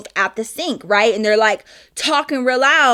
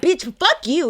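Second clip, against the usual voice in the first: higher, lightly acted trash talk; retold angry comeback; 5 semitones higher than usual. Brother trading insults with the girl, mock angry. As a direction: throw the insult back, imitating him. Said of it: "he starts talking shit".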